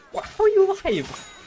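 high, slow, stunned; can't believe he's alive; shocked disbelief. Real, not acted. Shocked enemy survived.

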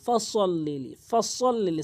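ফসল্লিলি with a full, heavy s, not th; ফসল্লিলি, doubled s made thick and firm; heavy sad. Shown as a demonstration. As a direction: say ফসল্লিলি with the emphatic Arabic sad. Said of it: "সতের উচ্চারণ করবেন".

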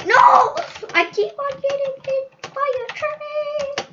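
loud shocked No; shout. Real, not acted. Gamer shouting No at another train hit. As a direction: bark out the loss.

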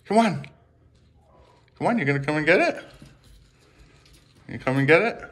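high, quick coaxing with lifted endings; encouraging pet-owner lilt. Real, not acted. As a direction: tempt a shy animal to come for food. Coaxing lizard to take food.

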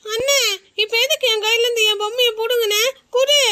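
put-on crying child. Child crying over snatched doll.

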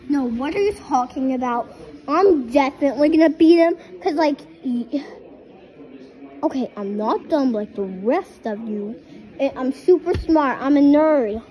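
loud, boastful toy voice shouting its case; a toy loudly insisting it will beat the others; bragging toy. Pretend. Toys quarrel over who wins.

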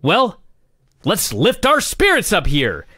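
rallying yourself out of gloom; mock pep-up announcer. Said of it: "then he looks up and he says".

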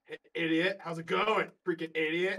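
taunting. Pretend. Taunting monster.

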